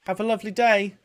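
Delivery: Val wishing the gnome well; Val's farewell. Acted. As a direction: chirp it out sweetly. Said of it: "Val kind of just goes".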